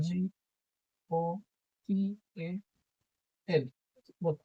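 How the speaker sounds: গোপাল spelled letter by letter, then said whole; teacher spelling গোপাল; spelling a name. Shown as a demonstration. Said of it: "আমার নাম গোপাল".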